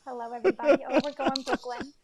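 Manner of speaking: put-on loud Brooklyn accent greeting. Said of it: "such a good Brooklyn accent".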